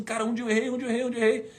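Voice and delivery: high, pleading repetition; despairing plea. Retold or imitated. Crying in the car, desperate repeated question. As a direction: ask it over and over in anguish. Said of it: "E eu chorando, desesperado".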